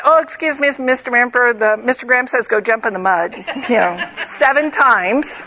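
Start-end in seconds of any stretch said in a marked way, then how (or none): 0.0-3.3 a hint of a timid kid delivering a cheeky message; mock polite servant kid. Neighbor kid politely tells the Emperor to jump in the mud, a hint of mock courtesy. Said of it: "sending out a neighbor kid to say".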